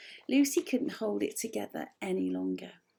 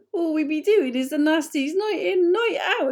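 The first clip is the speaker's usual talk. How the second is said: loud creature voice through laughter; laughing fit; 6 semitones higher, 10 dB louder than usual. A narrator's reading. Creakers laughing about their nasty nights, loud through laughter. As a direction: crack up while saying it. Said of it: "cracked up in fits of laughter".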